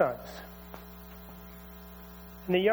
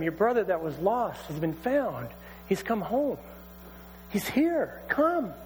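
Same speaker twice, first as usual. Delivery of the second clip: excited servant; 2 semitones higher than usual. Acted. Servant tells older brother.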